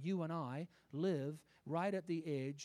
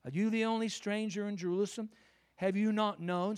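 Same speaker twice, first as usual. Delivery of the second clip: louder and higher, scornful disbelief; incredulous challenge; 5 semitones higher, 8 dB louder than usual. Acted. A disciple scolding the stranger on the road, loud. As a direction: hurl the question at him. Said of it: "I think the Lord's challenging us".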